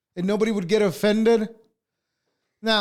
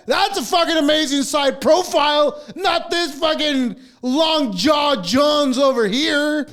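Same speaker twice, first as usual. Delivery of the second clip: shouted rant; 4 semitones higher than usual. Real, not acted. Ranting about a side profile.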